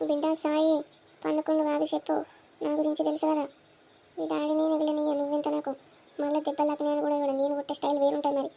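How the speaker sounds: mother threatening son to tell the truth; stern threatening mother. Acted. (కొడుకును బెదిరిస్తూ కఠినంగా అడిగే తల్లి)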